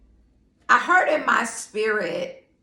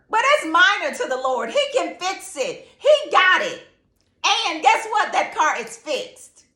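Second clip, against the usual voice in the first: building excitement; 6 semitones higher than usual. Real, not acted. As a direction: build it up toward the good news. Preaching rises toward climax.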